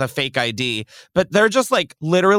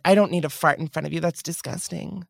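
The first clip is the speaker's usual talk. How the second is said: condescending mock; 5 dB quieter than usual. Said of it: "I just think it's so condescending".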